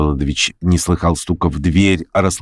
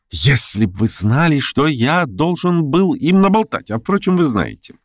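higher, quick eager busybody; fussy chatterer; 3 semitones higher than usual. Acted. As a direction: chatter on, pleased with himself. Pyotr Stepanovich voiced. (суетливый болтун, высоко)

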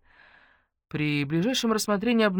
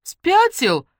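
offended; 13 semitones higher, 10 dB louder than usual. Acted. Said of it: "обиделась Ленка".

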